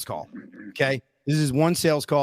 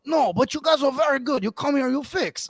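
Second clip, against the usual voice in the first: higher-pitched mock Asian accent, swooping tune; imitated Asian accent; 10 semitones higher than usual. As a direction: caricature a customer with a thick Asian accent. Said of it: "he was an Asian American guy".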